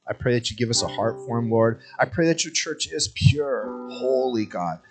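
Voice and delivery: earnest, measured prayer voice; pastoral prayer. Acted. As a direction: lead the church in a closing prayer. Closing prayer.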